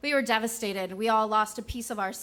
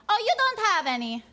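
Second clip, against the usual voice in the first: retold scream down; 9 semitones higher than usual. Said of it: "she screams down".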